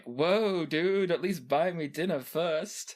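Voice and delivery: a lightly voiced startled Max; a hint of a flustered patient; mock startled. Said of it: "Max is like".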